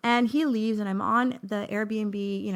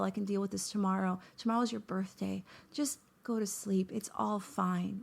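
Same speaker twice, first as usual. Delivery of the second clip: self-soothing. Retold or imitated. Calming herself down.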